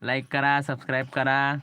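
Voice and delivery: loud prompting. Shown as a demonstration. Prompting child to repeat loudly.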